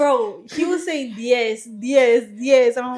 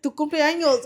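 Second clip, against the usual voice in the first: laughing Spanish; 4 semitones higher than usual. Retold or imitated. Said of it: "I was like".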